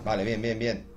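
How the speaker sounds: low, quiet self-talk; quiet muttering. Real, not acted. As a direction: mutter to yourself to stay calm. Calming himself mid-play.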